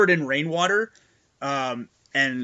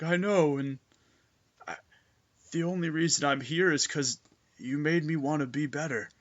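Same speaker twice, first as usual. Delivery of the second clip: a level, fearless cyborg voice, a touch softer; steady, no fear; 3 dB quieter than usual. Acted. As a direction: say it plainly and sincerely without a waver. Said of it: "there's no stutter, no verbal tick, no fear in his voice".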